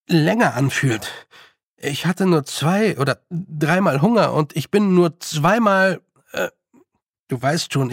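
a hint of an earnest boy; lightly boyish, hesitant reasoning; lightly voiced boy Roland. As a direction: explain it haltingly, like a puzzled boy.

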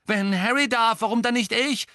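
high, loud protest; calling out. A narrator's reading. Ron objecting to being sent out, calling out. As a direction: cry out at the unfairness. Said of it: "rief Ron".

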